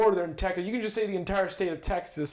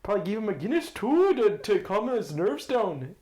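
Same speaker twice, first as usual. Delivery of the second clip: put-on a half-hearted stab at an Irish accent; bad Irish accent. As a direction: try an Irish brogue and miss it a little. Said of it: "my accent is horrible".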